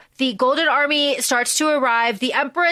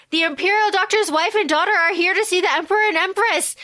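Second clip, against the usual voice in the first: raised, brisk court announcement; formal palace call, pitched up; announcing herald; 6 semitones higher, faster than usual. Acted. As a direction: call it out high and quick to the throne. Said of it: "the call is like".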